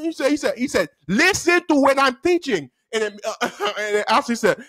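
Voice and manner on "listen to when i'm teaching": higher, emphatic telling-off; mock-stern order; scolding teacher. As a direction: imitate a strict teacher.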